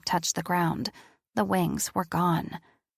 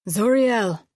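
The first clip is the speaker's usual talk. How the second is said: loud shout across the clearing, higher; rough call; 4 semitones higher, 7 dB louder than usual. Acted. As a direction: call out his name hard and rough. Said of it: "his voice rough".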